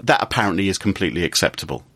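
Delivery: heavily sarcastic, feigning approval at the end. Real, not acted. Host sneering at printer-wasting hacker, sarcastic. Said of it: "I'm being sarcastic".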